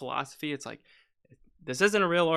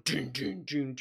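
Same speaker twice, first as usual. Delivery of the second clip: imitated timpani. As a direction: drum hits voiced as "dun". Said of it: "If you have a timpani going".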